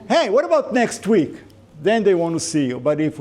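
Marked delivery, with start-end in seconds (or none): 0.1-1.3 mock eager invitation. Friend who really wants meeting.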